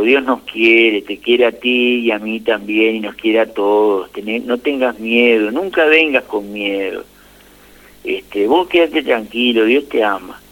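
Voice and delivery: slow, tender comfort; slow down and soothe the boy; gentle reassurance. Retold or imitated. A priest comforts a frightened child, slowly and tenderly.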